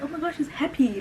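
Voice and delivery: high, laughing through the words; laughing relief. Real, not acted. Recalling her mom's happy reaction, laughing and high.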